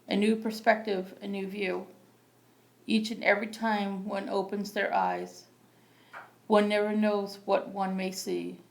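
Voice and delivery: measured poetry recital with pauses between lines; open-mic poem read plainly and deliberately. Acted. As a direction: read your poem out phrase by phrase, evenly. Reads own poem aloud.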